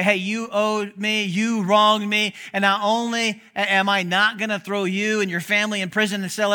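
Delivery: forceful, deliberate forgiving declaration; emphatic pronouncement. Acted. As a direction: lay it down firmly, point by point. Acts out God forgiving a debtor.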